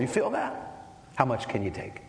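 playful ribbing with a laugh; teasing laugh. Real, not acted. Preacher teasing his son on stage, laughing. Teasing boy during knife demo.

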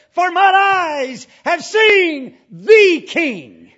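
loud, high, slow wail of a prophet undone; a prophet's stretched-out anguished shout; Isaiah's anguished cry. Acted. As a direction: cry out as if struck down before God. Isaiah's cry before God.

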